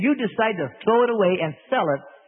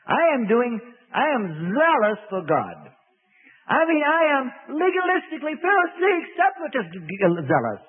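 protesting Saul; 3 semitones higher than usual. Acted. Saul protesting in retold scene.

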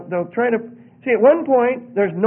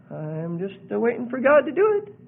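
mock a complacent do-nothing believer; hesitant, uh-filled excuse; passive waiting believer. Plays passive believer waiting on God.

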